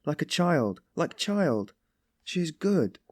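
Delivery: high, impassioned defence; deeply stirred. A narrator's reading. Sonia defends Katerina to Raskolnikov, stirred and anguished. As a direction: champion her with compassion, voice lifted. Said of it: "stirred to the very depths".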